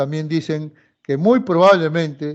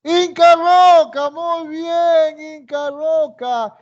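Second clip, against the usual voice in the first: delighted praise; 10 semitones higher, 4 dB louder, slower than usual. Real, not acted. Teacher praising student's correct answer.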